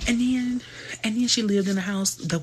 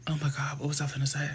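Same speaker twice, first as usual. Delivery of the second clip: whisper to self; 7 dB quieter, faster than usual. Real, not acted. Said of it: "forgetting, whispered to self".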